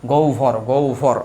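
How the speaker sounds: গৌভর, গৌভর spoken slowly, syllable by syllable; drawn-out গৌভর repeated for students; slow pronunciation demo. Shown as a demonstration. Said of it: "এই হচ্ছে গৌভর".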